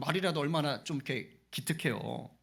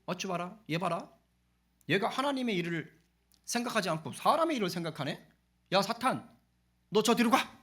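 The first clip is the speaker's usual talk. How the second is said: mock scolding; 3 semitones higher than usual. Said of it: "이런 식으로 지금 혼을 내고".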